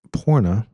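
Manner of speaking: "Porna" said deliberately, falling at the end; practised pronunciation. Shown as a demonstration. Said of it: "say that one more time".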